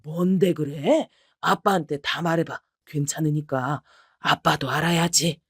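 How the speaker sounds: dad calming his crying daughter; reassuring father. Acted. (천천히 다독이는 아버지)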